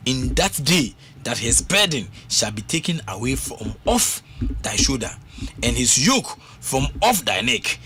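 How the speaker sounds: slow, solemn psalm reading; scripture reading. Acted. Preacher reading a psalm to the congregation, slow and solemn. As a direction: read the psalm slowly and solemnly. Reads Isaiah to listeners.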